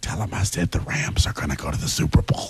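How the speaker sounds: soft, whispered under the breath. Imitating a background voice feeding a caller lines: imitating someone whispering. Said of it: "whisper to somebody on the phone".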